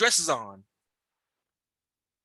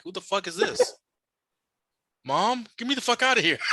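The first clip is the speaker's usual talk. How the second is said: put-on baby's imagined thoughts; 6 semitones higher than usual. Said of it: "he was looking at me like".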